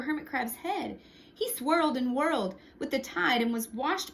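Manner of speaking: put-on lively read-aloud for children; storyteller voice for kids; story narration. A narrator's reading. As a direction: tell it like a picture book to a class. Reads picture book aloud.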